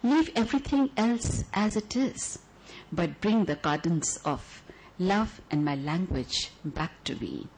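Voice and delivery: measured, lyrical poem reading; poetry recital. Acted. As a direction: read it like a love letter to the audience.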